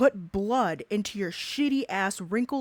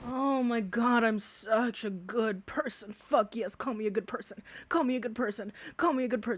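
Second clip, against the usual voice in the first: mock self-satisfied pleading, a bit softer; sneering imitation of a man fishing for compliments; mock impression of him; 6 dB quieter than usual. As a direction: parody him begging for praise. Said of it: "that's what you sound like".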